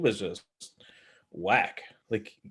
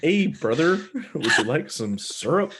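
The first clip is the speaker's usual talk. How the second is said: put-on Canadian accent; 3 semitones higher, slower than usual. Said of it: "Canadian accent".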